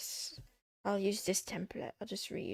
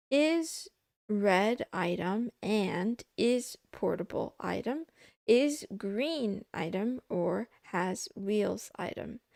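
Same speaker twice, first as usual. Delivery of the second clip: reading aloud; 4 dB louder than usual. Acted. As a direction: read it out like a lesson. Reads textbook aloud.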